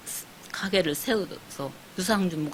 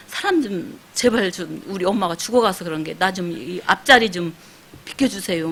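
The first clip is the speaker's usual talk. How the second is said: retold tearful plea; 5 dB louder than usual. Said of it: "막 울면서 막 그러니까".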